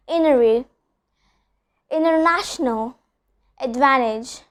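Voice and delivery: Interview and international said with no T at all; dropped T after N. Shown as a demonstration. Teacher demonstrating the silent T after N. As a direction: let the T vanish after the N. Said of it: "I'm not pronouncing the T sound".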